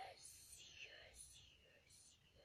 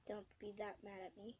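whisper; 7 dB quieter than usual. Real, not acted.

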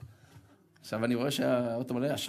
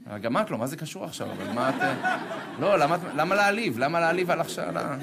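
half-laughing, louder offended retort; laughing protest; 3 semitones higher, 5 dB louder than usual. Retold or imitated. Injured driver laughing back at the blunt nurse. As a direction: protest the insult through laughter.

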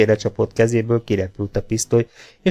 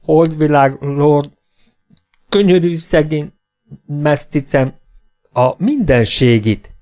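high, loud, drawn-out wail of a plea; frightened begging; 5 semitones higher, 5 dB louder, slower than usual. A narrator's reading. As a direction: implore in halting, raised bursts. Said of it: "könyörgött fogvacogva".

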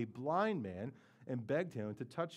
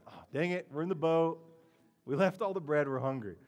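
slightly raised, annoyed disciple voice; mock dismay; 2 semitones higher, 5 dB louder than usual. Disciples in the boat find they forgot bread, mock dismay. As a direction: grumble as if just noticing the mistake.

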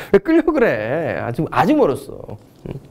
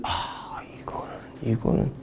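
whisper; 9 semitones lower, 13 dB quieter, slower than usual. Acted. Teacher drops to a whisper.

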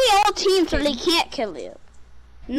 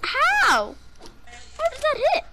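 raging gamer; 7 semitones higher than usual. Real, not acted.

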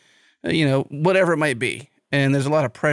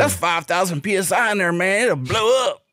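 mock warning yell, pitch climbing; retold holler rising at the end; imitating a yell; 4 semitones higher than usual. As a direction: call out an urgent warning, lightly hammed-up. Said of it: "the guy yells at him".

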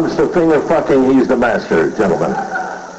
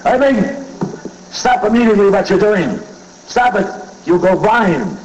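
scolding father; 9 semitones higher than usual. Retold or imitated. Father catching his son upstairs, high alarmed yell. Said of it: "the father says".

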